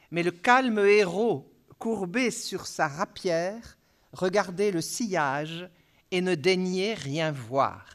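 measured poetry reading, line by line; verse recitation. Acted. Lecturer quotes Baudelaire's last lines to the audience, measured recitation. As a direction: set each line apart with slight pauses.

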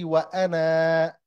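long final aa on وأنا; alif pronounced. Shown as a demonstration. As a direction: hold the alif at the end of وأنا. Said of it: "now I pronounce the alif".

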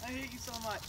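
gasping in cold water; shivering laugh under cold hose; in ice cold water. Real, not acted. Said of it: "Oh my God, it's cold".

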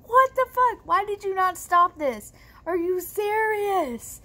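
appalled and incredulous, stretching the last question; outraged disbelief. Retold or imitated. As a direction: demand an answer in exasperated disbelief. Outraged at mom's non-intervention.

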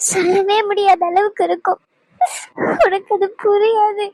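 grieving, with tears just under the voice; choked with quiet grief over her loss; tearful, quietly crying. Acted. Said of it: "அமைதியா அழுதுகிட்டே இருக்கிறதுனால". (அழுகையுடன், வேதனையாக)

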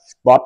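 "Spot." với âm t cuối bật rõ; nói "Spot." bật rõ âm t cuối, giọng hơi cao; clear final t. Shown as a demonstration. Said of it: "xì cái và ngậm miệng lại". (phát âm "Spot." bật rõ t cuối)

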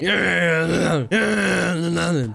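high laughing echo. Real, not acted. Mocking the other's threat through real laughter.

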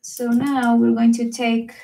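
talking through hiccups; words broken by hiccups. Real, not acted. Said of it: "I, I have the hiccups".

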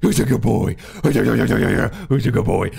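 put-on loud, gushing dog-owner baby talk; slobbery, drawn-out cooing at a puppy. Shown as a demonstration. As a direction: fuss wildly over a Labrador. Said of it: "Like you get a Labrador".

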